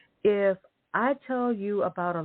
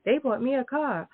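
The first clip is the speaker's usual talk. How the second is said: mock show-off; 6 semitones higher than usual. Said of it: "sending a picture of".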